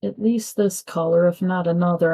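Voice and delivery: words stretched by a yawn. Real, not acted. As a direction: talk through a big yawn. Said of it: "I know I'm yawning like crazy".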